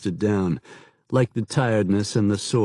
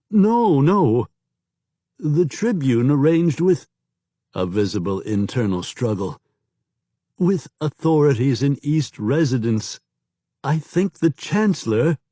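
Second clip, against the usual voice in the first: panicked protest; 6 semitones higher than usual. A narrator's reading. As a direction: cry out in terror to stop the gun. Gun cocked at kneeling informer.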